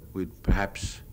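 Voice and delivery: ordinary delivery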